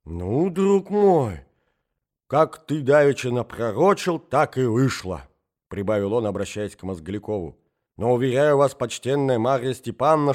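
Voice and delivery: put-on amble through the tale like a befuddled old prince; old prince storytelling. Prince speaks again.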